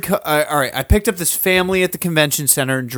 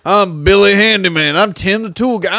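mock handyman brag; 6 semitones higher, 6 dB louder than usual. Mocking a boastful handyman.

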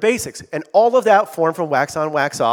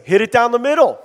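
emphatic teacher; 7 semitones higher, 8 dB louder than usual. Retold or imitated. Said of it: "Miyagi's saying to Daniel-san".

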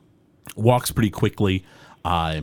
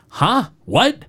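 loud, much higher startled shout; 5 dB louder than usual. Acted. The father, called to the door, shouting loudly from inside. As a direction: bark it out, annoyed at being disturbed. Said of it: "a loud voice goes".

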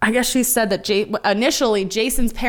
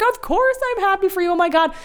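imitating Betty; 12 semitones higher than usual. Betty voiced in recap.

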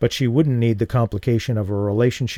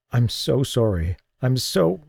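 choking back a sob; 2 semitones higher than usual. Acted. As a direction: voice breaking on "so". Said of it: "he tried to choke off a sob".

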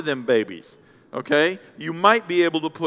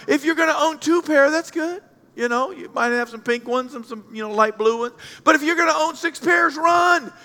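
raised preacher voice; preaching shout; 7 semitones higher than usual. Real, not acted. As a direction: drive the point home to the crowd. Pastor exhorting the congregation loudly.

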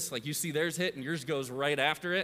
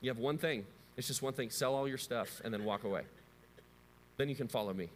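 gentle Jesus; 5 semitones lower, 4 dB quieter than usual. Retold or imitated. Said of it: "Jesus looks at him and he says".

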